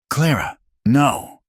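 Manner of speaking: slow, high protest; pleading protest. A narrator's reading. Man trying to stop Clara's accusation, pleading. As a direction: plead with her, drawn out and high.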